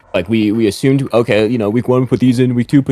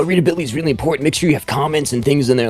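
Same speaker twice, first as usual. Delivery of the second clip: higher, fast preachy advice; mocking influencer; 5 semitones higher, faster than usual. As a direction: parrot a smug tutorial voice. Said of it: "influencers, like, you know".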